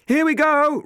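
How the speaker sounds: high, loud call. Acted. Robin calling out to the passengers, loud. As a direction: announce takeoff over the engine. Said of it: "Robin called".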